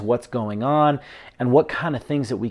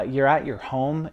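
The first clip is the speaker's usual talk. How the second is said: normal talking voice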